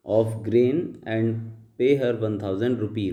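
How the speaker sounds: slow, deliberate read-aloud of the paragraph; slow dictation reading. Shown as a demonstration. Teacher reading the paragraph aloud to students, slow and deliberate. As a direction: read each word out slowly for the class. Reads slowly.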